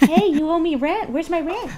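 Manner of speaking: cold greedy landlord. Pretend. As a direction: lean on the hen for rent. Repeats rent demand.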